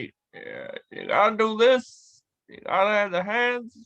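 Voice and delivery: lightly voiced halting politician; hint at Obama with pauses between phrases; Barack Obama. Shown as a demonstration. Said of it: "So, like, with Barack Obama".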